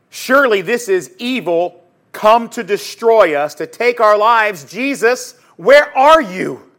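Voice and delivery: urgent cry, building to a loud slow plea; mounting mock desperation in a storm; disciples' alarm. Voicing disciples terrified in storm.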